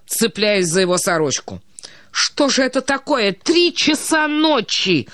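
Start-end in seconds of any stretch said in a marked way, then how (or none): 2.1-5.1 tearful wail. A narrator's reading. Vasilisa woken at three a.m., wailing at the ceiling. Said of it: "завопил, плача, Василиса".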